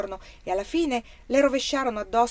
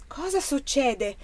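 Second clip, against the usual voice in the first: higher, slow, drawn-out question called out; alarmed cry; 6 semitones higher, slower than usual. A narrator's reading. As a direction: call out, demanding to know. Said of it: "gridò Pia Prom, alzandosi". (domanda gridata con allarme)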